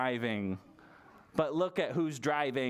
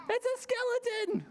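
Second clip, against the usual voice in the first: spooky voice. Acted. Librarian reveals the skeleton in a spooky high voice. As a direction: announce it like a ghost story.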